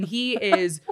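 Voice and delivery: ordinary talk, nothing marked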